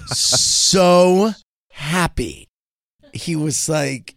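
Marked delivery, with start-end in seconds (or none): 0.0-2.5 laughing. Real, not acted. Laughing over son's joy at school.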